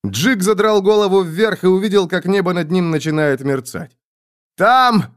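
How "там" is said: high, loud single-word cry; barked shout. A narrator's reading. Jig points at the shimmering sky, high barked shout. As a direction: bark it out as an alarm. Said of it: "гаркнул Джик".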